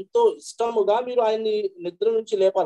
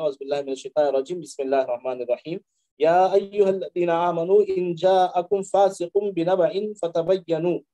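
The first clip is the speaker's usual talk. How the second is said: Quran recitation. Acted. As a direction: recite it in an unhurried chant. Quran verse recited in Arabic.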